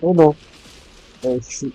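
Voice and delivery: startled as things go wrong; real alarm. Real, not acted. Gamer getting hit in the fight, alarmed.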